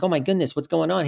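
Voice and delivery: surprised. Retold or imitated. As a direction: act out pleasantly baffled recognition. Retells surprise at being recognized.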